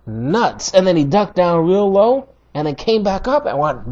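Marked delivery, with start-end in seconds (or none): 0.0-0.7 slow dismissive taunt. Retold or imitated. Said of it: "he was like".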